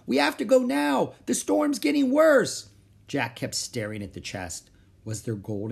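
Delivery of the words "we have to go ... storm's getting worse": very high, loud call; urgent insisting. Acted. Girl to dawdling brother in storm, urgent calling. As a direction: call out impatiently.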